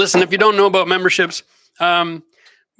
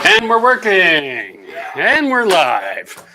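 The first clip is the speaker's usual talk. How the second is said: laughing; 3 dB louder, much slower than usual. Real, not acted. Stream finally starts, laughing.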